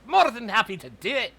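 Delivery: high, loud, thrilled exclamation; delighted baker. Acted. Baker cheering the deal, high and loud. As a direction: burst out with glee at the gold.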